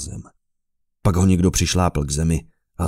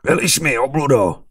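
higher, furious sputter; indignant outburst, higher pitch; spat out; 8 semitones higher, 4 dB louder than usual. A narrator's reading. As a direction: spit the words at him.

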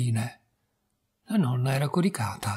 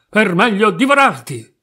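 loud, higher storybook wolf; acted menacing shout, pitched up; pouncing wolf; 6 semitones higher, 8 dB louder than usual. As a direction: burst out as the wolf about to pounce. Wolf reveals himself and pounces.

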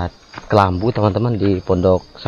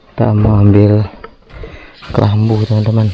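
shouting over wind; 2 semitones higher, 4 dB louder than usual. Real, not acted. Strong wind at night in forest.

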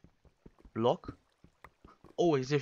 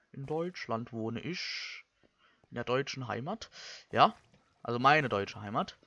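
slow, halting declaration of homeland; measured, portentous statement with gaps between phrases; accidental speechmaking; 3 semitones lower, slower than usual. Real, not acted. Let's player telling viewers where he lives, slow unintended speechmaking. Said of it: "wie so eine Hitlerrede irgendwie".

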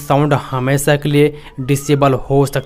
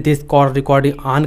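slow, spaced-out automated prompt voice; imitating the call recording announcement; much slower than usual. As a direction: drag each word out like a phone's recorded message. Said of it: "वहाँ पे एक sound".

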